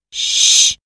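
breathy hush to silence them; a sharp hushing shh; shushing whisper. A narrator's reading. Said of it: "she said".

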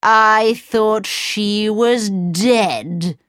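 slow, disbelieving queen; a hint of a scheming queen; wicked queen. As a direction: drag it out in angry disbelief. Queen hears Snow White lives.

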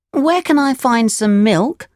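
put-on high puppet boy voice; Pinocchio, concerned. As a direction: speak up for a thirsty father. Pinocchio asks the cricket.

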